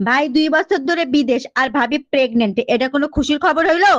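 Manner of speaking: mildly indignant scolding. Acted. Wife challenges husband over the neighbour's pregnancy, mildly scolding. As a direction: tell them off, only mildly heated. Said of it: "আমার উপর চিল্লাচ্ছ কেন".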